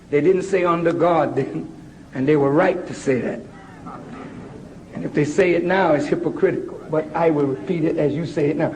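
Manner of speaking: lightly voiced West Indian mother, low-pitched; West Indian accent. Mother correcting the Pledge for her son, light West Indian accent. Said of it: "in her beautiful West Indian accent".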